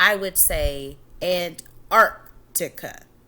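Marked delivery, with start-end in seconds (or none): 1.2-3.0 Antarctica with the arc syllable emphasized. Reading a syllable written in capitals: stress on arc in Antarctica. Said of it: "Arc is emphasized because it's in all caps".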